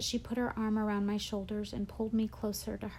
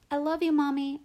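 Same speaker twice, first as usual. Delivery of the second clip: tearful call; 6 semitones higher, 7 dB louder than usual. A narrator's reading. Boy calls goodbye to departing mom.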